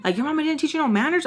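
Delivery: retold indignant scolding. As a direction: imitate a boyfriend's rapid telling-off. Boyfriend scolds her, retold.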